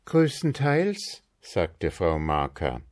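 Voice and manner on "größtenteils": wife's matter-of-fact reply. A narrator's reading. Frau Marker answers.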